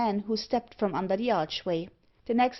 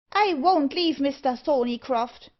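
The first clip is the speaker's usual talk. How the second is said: high, loud dwarf defiance; resolute cry; 6 semitones higher, 5 dB louder than usual. A narrator's reading. Dwarf refuses to leave Thorneycroft, crying resolutely. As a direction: declare it firmly, pitched up. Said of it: "cried the dwarf resolutely".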